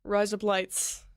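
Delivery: trick-phrase Australian accent. Shown as a demonstration. Streamer trying the rise up lights trick for chat, Australian accent. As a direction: say it as if "razor blades" in an Australian accent. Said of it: "in an Australian accent".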